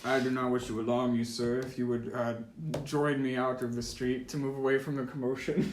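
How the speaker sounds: courteous officer, lightly put on; guard captain. Game master as guard asks the party to step aside, lightly formal voice. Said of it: "a higher ranked guard".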